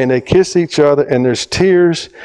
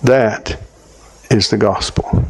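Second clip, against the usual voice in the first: hushed tender truth; 3 semitones lower than usual. Retold or imitated. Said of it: "I said".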